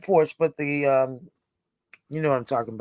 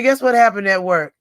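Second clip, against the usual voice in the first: usual speaking voice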